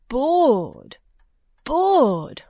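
long, sighing stretch on "bored", pitch sliding down; storyteller's exaggerated ennui; drawn-out boredom. A narrator's reading. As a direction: draw out each "bored" in mock tedium. Narrator dwells on the boredom.

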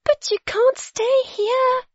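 put-on very high-pitched girlish protest; high, urgent storybook girl; alarmed yelp. A narrator's reading. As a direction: yelp it as a panicked child. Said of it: "yelped Zoe".

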